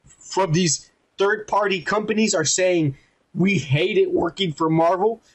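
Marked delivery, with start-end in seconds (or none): 3.3-5.2 words pushed through a burp; burping while talking. Real, not acted. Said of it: "I'm burping while I'm saying".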